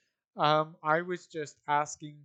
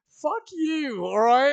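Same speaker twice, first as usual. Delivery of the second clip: mock yell; 9 semitones higher, 10 dB louder, slower than usual.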